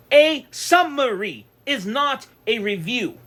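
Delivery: slow, deliberate, every word spaced; slow reiteration. Real, not acted. Restating his point to viewers, slow and deliberate. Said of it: "let me reiterate this".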